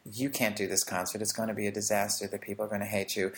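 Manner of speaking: put-on quick, hushed voice of a fearful child; anxious inner child. Speaker voicing inner child's fears before a concert, hushed and hurried. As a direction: rush the worries out under your breath. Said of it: "I can hear my inner child saying".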